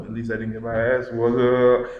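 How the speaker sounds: mock teasing. Older brother making fun of whipped younger one, mock teasing. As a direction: tease like a sibling who got off free. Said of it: "make fun of them".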